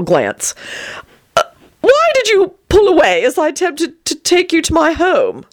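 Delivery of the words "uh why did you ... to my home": rapturous. Acted. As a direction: gush it out in raptures. Vampire Tony's voice.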